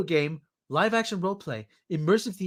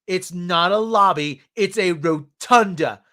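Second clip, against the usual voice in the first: pissy; 5 dB louder, slower than usual. Retold or imitated. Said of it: "she got all pissy with me".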